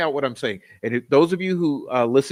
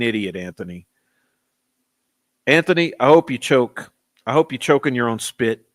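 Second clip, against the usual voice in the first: chewing out a troll in chat; angry rant. Real, not acted.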